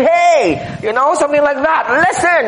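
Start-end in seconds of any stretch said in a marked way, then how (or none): 0.0-0.6 sharp urgent call out; Paul grabbing you. Pretend. Paul seizing the Ephesians, an urgent call. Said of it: "like, grabbing you". 2.1-2.4 high sharp call for attention; urgent listen. Pretend. Paul pulling believers close, an urgent high call. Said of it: "like, grabbing you".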